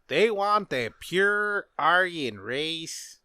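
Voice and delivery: put-on slow, half-hearted German accent; a failed stab at a German accent, drawn out; bad German accent. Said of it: "That was a bad accent".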